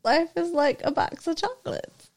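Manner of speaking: reluctant, half-hearted Gump voice; Forrest Gump impression. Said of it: "do your Forrest Gump".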